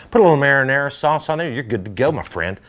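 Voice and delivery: excited sales patter; getting excited. Real, not acted. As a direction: get carried away pitching the food. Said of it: "I'm getting excited here".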